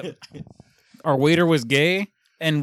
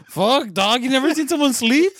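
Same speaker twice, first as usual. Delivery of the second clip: higher, louder annoyed snap at friends; mock pissed off; 8 semitones higher, 4 dB louder than usual. Woken friend snapping at the guys taking pictures, imitated annoyed and higher. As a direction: play the groggy friend who is irritated at being photographed. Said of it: "He's all pissed off".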